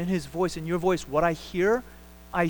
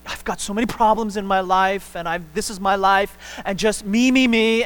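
whiny self-absorbed relative; 4 semitones higher, 8 dB louder than usual. Retold or imitated. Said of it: "It's like".

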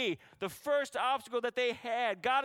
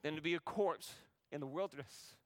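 hushed repeat; 6 semitones lower, 7 dB quieter than usual. Shown as a demonstration. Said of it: "repeated line, dropped voice".

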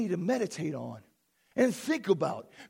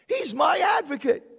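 fervent declaration; 4 semitones higher, 3 dB louder than usual. Real, not acted.

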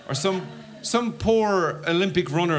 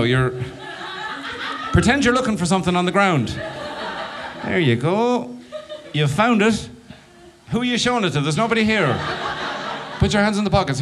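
high, anxious coaching of himself; frantic self-talk; 7 semitones higher than usual. Retold or imitated. Stoned guy at bus stop, frantic high self-talk. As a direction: talk yourself through it in a panic. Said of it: "And I was like".

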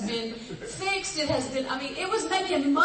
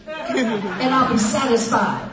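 bold declaration; 3 semitones lower, 7 dB louder than usual. Acted. Pastor showing the church how to speak over their bodies, bold declaration. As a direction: declare it like a promise you own.

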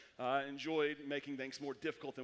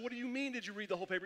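higher, confused comeback; puzzled echo; 4 semitones higher, much faster than usual. Retold or imitated. Student to classmate who asked about the paper, puzzled. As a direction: throw the question back in disbelief.

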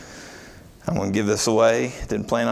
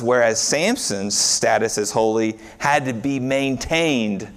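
normal talking voice

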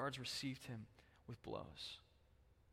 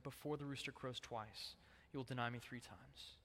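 quiet solemn quote; 6 dB quieter than usual. Retold or imitated. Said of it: "how Jesus had said to him".

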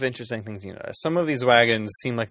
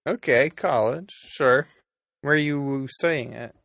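slow, dubious acceptance, pitched up a little; mildly sceptical dragonborn; 4 semitones higher than usual. Acted. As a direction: humour them with a hint of doubt. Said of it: "He raises an eye ridge at you".

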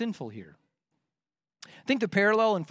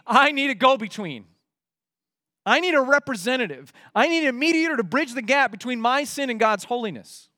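raised, forceful declaration of need; urgent plea; 4 semitones higher, 4 dB louder than usual. Acted. Sinner realizing the need for a mediator, urgent and raised. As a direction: press hard on each "I need".

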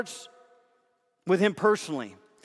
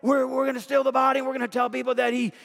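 excited high shouting plotters; disciples plotting; 6 semitones higher, faster than usual. Retold or imitated. Pastor voicing disciples in a comedy video, excited shout. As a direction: shout it like giddy schemers around a bonfire. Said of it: "they were like".

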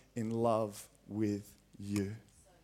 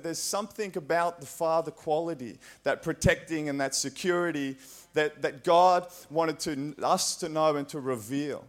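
pressing the point with rising intensity; intense preaching; 3 semitones higher than usual. Shown as a demonstration. Teacher preaching to student, mildly intense. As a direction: lean in hard on the message. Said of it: "obviously I wasn't this intense".

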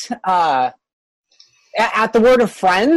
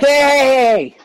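mildly acted higher-pitched challenge; alarmed goblin; 6 semitones higher than usual. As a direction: goblin guard raising a light alarm. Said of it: "he's like".

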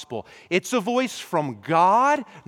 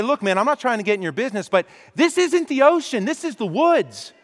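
incredulous objection; 6 semitones higher, 4 dB louder than usual. Acted. Friend objecting on the hike.

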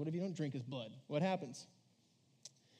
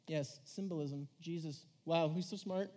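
mock pious; 3 dB quieter than usual.

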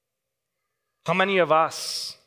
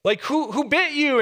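higher, slow concerned dad; a worried dad asking his little girl; gentle questioning dad; 9 semitones higher than usual. Retold or imitated. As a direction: coax the story out of her.

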